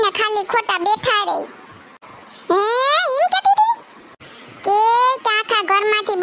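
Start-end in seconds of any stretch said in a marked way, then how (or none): 2.5-3.8 aunt stunned to hear what daughter-in-law says, shocked; shocked disbelief. Acted. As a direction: recoil in shock at the gossip. Shocked aunt hears gossip.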